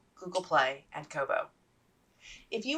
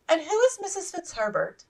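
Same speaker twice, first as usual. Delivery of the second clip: offhand; 6 semitones higher, 5 dB louder than usual. Acted. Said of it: "she said offhandedly".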